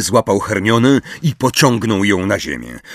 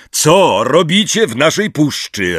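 higher, raised demand; roared challenge; 7 semitones higher, 4 dB louder than usual. A narrator's reading. Grey centaur confronts the intruders, roaring. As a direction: call them to account, voice up. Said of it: "ryknął siwy centaur".

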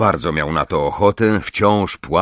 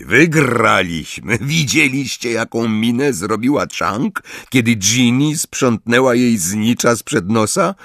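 savouring; 5 semitones higher than usual. Acted. Ron savouring the win before his friends, relishing. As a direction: roll the victory around in the mouth. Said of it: "delektując się słowami".

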